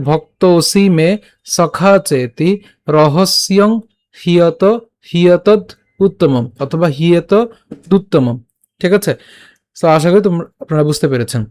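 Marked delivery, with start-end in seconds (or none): 0.1-8.4 "ভক্ত ওসি মে" run together, vowels held; slow careful modelling of "সখা চেতি"; pronunciation demo. Shown as a demonstration. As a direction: sound out "হিয়তদ" and "উত্তমম" piece by piece. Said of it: "So উচ্চারণটা কেমন হচ্ছে".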